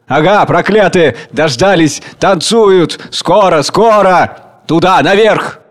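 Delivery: loud, high triumphant shouts; gloating cries. Acted. Crowd gloating at the dancers above, loud and high. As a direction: relish that the time has come.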